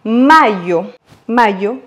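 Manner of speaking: Mayo with the first A stressed. Shown as a demonstration. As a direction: lean on MA in mayo. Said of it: "accentuer sur le A".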